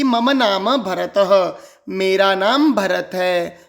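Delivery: मम नाम भरतः said slowly with visarga as ह; slow recitation. Shown as a demonstration. Teacher voicing the pupil Bharat slowly. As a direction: read it out slowly. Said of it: "स्पष्ट उच्चारण".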